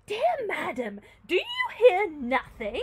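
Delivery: hammed-up worried servant; anxious maid. A narrator's reading. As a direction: draw out the fearful question. Voices maid in the story.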